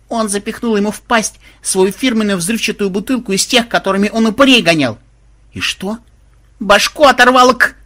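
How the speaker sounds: high-pitched breathless-with-news report; excited outburst. A narrator's reading. Granddaughter tells of the dragon's lost head, excited high voice. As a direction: blurt it out excitedly.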